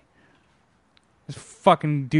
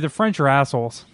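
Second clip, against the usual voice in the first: Dumb and Dumber quote; 3 dB louder than usual. Retold or imitated. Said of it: "that Dumb and Dumber line?".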